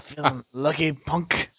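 a hint of Clint's tough-guy growl; quiet Dirty Harry. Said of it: "same actor".

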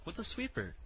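high, soft confused voice; mock clueless voice. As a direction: squeak it like a puzzled kid. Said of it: "I'm like".

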